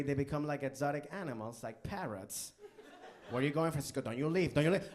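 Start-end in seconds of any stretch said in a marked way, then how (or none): 3.3-4.9 mock girlfriend yell. Voiced girlfriend yelling at Francisco.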